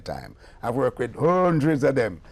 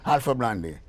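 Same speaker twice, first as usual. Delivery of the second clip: quoting the British lady; 4 semitones higher than usual. Retold or imitated. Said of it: "She said".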